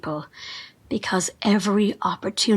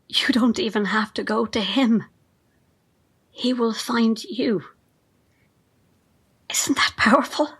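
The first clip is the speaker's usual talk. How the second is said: rapt whisper. Acted. Carl praising Wesley to the reporter, in a rapt whisper. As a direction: savour each word in awe. Follower describes the leader's pull.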